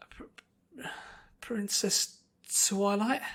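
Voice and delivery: high, hesitant little colt; timid child calling up; small colt voice. Acted. Young colt calling to Princess Twilight, small and timid. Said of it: "a small voice spoke up".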